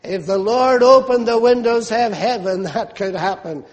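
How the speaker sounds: lightly mocking disbelief; understated pulpit mockery with a small laugh. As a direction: scoff mildly at the prophecy. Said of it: "mockingly saying".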